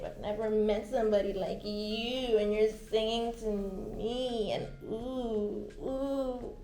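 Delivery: mock swooning. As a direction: act starstruck as he serenades. Swooning while he sings to her.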